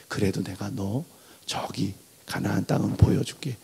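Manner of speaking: a father softening bad news; God gently promising Moses a view of Canaan; gentle consolation.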